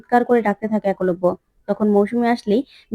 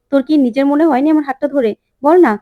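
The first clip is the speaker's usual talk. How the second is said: higher, louder pressing question; insistent plea; 4 semitones higher, 4 dB louder, faster than usual. Acted. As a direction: push her to confess it. Ranga pressing Bihu to admit.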